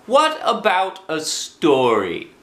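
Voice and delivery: put-on high, slow, eager child asking; childlike voice. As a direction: ask like an eager little boy. Child Christopher Robin asks.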